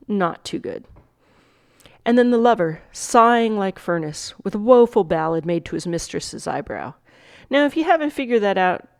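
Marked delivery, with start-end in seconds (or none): 2.1-6.9 measured Shakespeare monologue reading; dramatic recitation. Acted. Teacher reading the monologue to students, dramatic recitation. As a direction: recite it with weight on each new figure.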